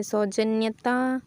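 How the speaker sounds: सौजन्यता stretched out slowly, each syllable separate; slow and deliberate. Shown as a demonstration. Teacher sounding out a spelling for the class, slowly. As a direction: say सौजन्यता slowly so students hear each part. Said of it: "साम्यता नहीं होता".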